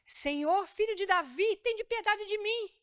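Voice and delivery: 1 blind man's plea. Acted. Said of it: "Lembram quando ele dizia".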